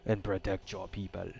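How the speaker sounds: lightly put-on African slash Asian accent; game character voiced with a makeshift African-Asian accent. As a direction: read it in a muddled mock African-Asian accent. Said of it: "did an African slash Asian a accent".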